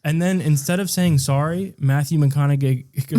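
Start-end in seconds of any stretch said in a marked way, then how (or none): 2.2-3.1 McConaughey with the last syllable as "gay"; slip of the tongue. Real, not acted.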